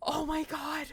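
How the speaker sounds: breathless whispered oh my god; hushed amazement; awed whisper. Real, not acted. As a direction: whisper it, not to scare him. Gasping in awe.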